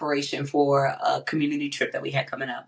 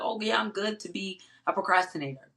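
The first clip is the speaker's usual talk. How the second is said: higher, self-satisfied imagined listener; mock complacency; 4 semitones higher, 3 dB quieter than usual. Imagined listener excusing their procrastination, mock complacent. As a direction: act lightly pleased with yourself. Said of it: "take this and be like".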